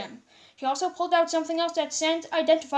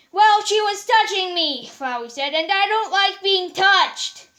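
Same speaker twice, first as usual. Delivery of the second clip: high, loud petulant flower voice; whiny flower; 7 semitones higher, 8 dB louder than usual. Acted. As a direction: complain like a spoiled little plant. Flowey complaining, voiced higher.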